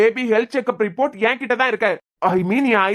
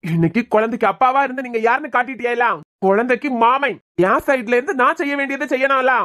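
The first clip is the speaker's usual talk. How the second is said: angry confrontation. Acted. Father confronted over harm to baby.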